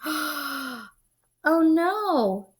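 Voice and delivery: high panicked cry, rising sharply; gasp, then panic about the rocks; frightened cry. Acted. Toad sees stones rolling down, cries in fright. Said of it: "cried Toad".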